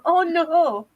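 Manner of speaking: high, loud hammed-up dismay; mock dismay. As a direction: wail it in comic despair. Mock dismay at sad videos.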